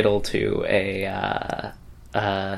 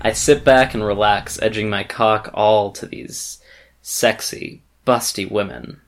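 put-on Canadian accent. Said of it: "Canadian accent incoming".

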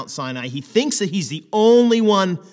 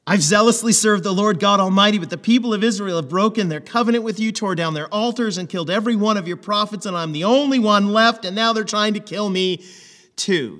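a touch louder, aggrieved repeat; aggrieved complaint; 4 semitones higher, 3 dB louder than usual. Acted. Elijah repeating his grievance to God, mildly aggrieved. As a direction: rattle off the old complaint, a bit rushed.

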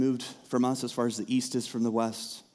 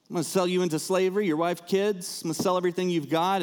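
fast, higher voice of a harsh master; 5 semitones higher than usual. Retold or imitated. Master sentencing his servant, lightly voiced and fast. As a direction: rattle it off like a master selling off a debtor.

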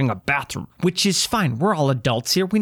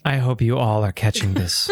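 laughing; 6 semitones lower than usual. Real, not acted. Laughing at nose scratching.

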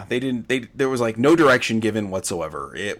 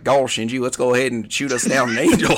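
Texas twang. Retold or imitated. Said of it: "Texas twang going on in there".

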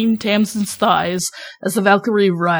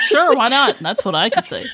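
laughing; 4 semitones higher than usual. Real, not acted. Answers laughing.

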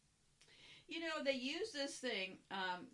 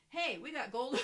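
excited; 3 semitones higher, 7 dB louder than usual. Retold or imitated. Retelling a gleeful announcement.

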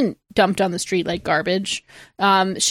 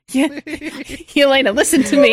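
radio comms voice; 4 semitones higher, 4 dB louder than usual. Retold or imitated. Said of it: "I'm on comms with Yelena".

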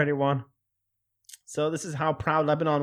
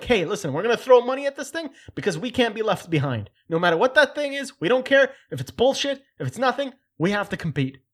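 loud, higher, mock-bureaucrat rant; mock official shouting; 5 semitones higher, 4 dB louder than usual. Vlogger mimicking Cold War military officials, loud mock rant. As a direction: bellow it like a panicked general.

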